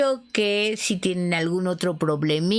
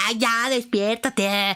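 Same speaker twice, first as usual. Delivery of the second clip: fed up; 4 semitones higher, slower than usual. Retold or imitated. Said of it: "ya harta".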